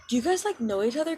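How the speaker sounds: high, squeaky prying question; pry like a nosy kid; curious classmates. Retold or imitated. Classmates prying about matching suits, squeaky voice.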